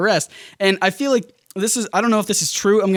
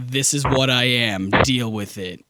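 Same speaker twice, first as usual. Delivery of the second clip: blunt matter-of-fact; 5 semitones lower, slower than usual. Retold or imitated. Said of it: "He's just like".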